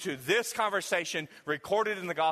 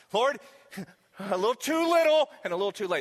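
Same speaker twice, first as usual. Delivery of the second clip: louder mock rebuke through a laugh; laughing jab; 3 semitones higher, 6 dB louder than usual. Preacher mimicking the sisters' scorn, laughing and louder. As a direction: sneer it out half laughing.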